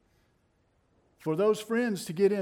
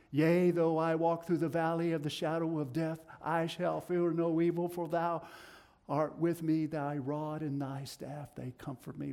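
reverent scripture recitation. Acted. Preacher reciting the psalm to listeners, hushed.

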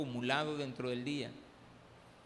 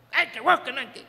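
put-on high, loud whiny teen protest; whiny daughter; 7 semitones higher, 11 dB louder than usual. Daughter protests to dad about keys, whiny and loud. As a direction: whine it like a scolded teenage daughter.

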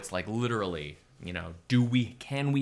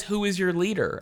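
bad Bane impression; 9 semitones higher than usual. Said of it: "She thinks he says".

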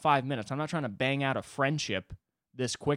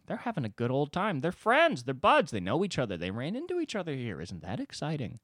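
swooping mock-gleeful sing-song; mock excitement; 3 semitones higher than usual. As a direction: gush sarcastically about their fun. Mocking the giggling pair's excitement.

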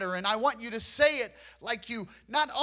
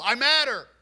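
firm, emphatic, louder I matter; forceful declaration; 4 dB louder than usual. Retold or imitated. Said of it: "there was some force behind that".

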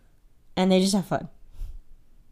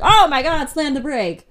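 high, loud burst of alarm; re-enacted emergency exclamation; mock panic; 6 semitones higher, 6 dB louder than usual. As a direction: blurt it like a startled driver. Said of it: "It was just like".

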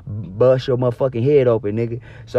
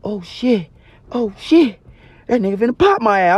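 mock panic; 7 semitones higher than usual. Panic at gun.

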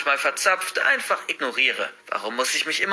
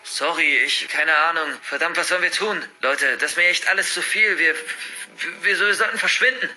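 raised, overwhelmed, stammering voice; panicked stutter; 5 semitones higher than usual. A narrator's reading. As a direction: stumble over words, wanting to flee. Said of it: "stottere ich so vor mich hin". (stotternd, überfordert)

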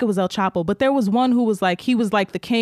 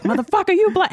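much higher mock yell; imitated angry yelling; 11 semitones higher than usual. Woman yells at dad after fender bender, mock angry. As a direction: act out a woman cursing, pitched way up. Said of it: "was, like, yelling at him".

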